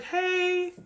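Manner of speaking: soft, high, calm hey; calm greeting. Retold or imitated. Calm mother greets her crying daughter's friend. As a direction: greet her gently, unshaken. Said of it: "Her mother was so calm".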